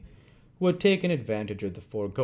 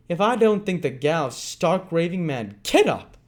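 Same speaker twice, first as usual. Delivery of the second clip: loud, higher shout to get up; shouted order; 8 semitones higher, 7 dB louder than usual. Acted. Sikes seizing Nancy by the arm, shouting. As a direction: yank her up with the words.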